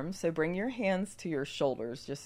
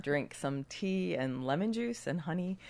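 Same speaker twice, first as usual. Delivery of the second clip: hoarse from a cold; rough, raspy cold voice; gravelly voice. Real, not acted. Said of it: "I apologize for my gravelly voice".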